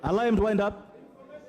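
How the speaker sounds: loud and slow, each word firm; slow loud command. Real, not acted. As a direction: spell it out over the noise. Speaker repeats order, slowly.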